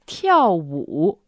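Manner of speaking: 跳舞 in careful fourth and third tones; fourth then third tone. Shown as a demonstration. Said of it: "the fourth tone and the third tone".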